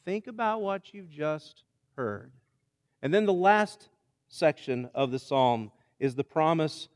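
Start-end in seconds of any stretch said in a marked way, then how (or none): 0.1-2.3 softer, hushed invitation to stillness; quiet urging to calm down. Acted. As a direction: ease them down gently. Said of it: "And then he tells us".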